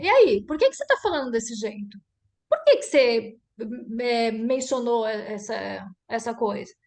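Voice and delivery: direct, pointed demo challenge; mildly challenging why-question; confrontational questioning. Shown as a demonstration. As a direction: put the question to her bluntly. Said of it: "eu posso virar pra Sônia e falar".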